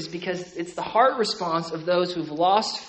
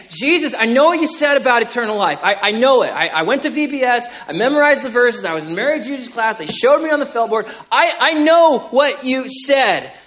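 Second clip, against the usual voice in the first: pleading heart; 4 semitones higher, 7 dB louder than usual. Pretend.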